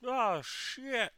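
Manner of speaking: very high, loud falsetto cry; mock mom yell. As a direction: imitate mom hollering from the porch. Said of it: "my mom from the porch yell".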